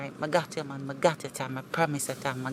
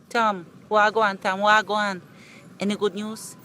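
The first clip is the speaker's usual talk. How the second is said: excited greeting; 4 semitones higher, 7 dB louder than usual. Acted. Eager greeting shouted at door.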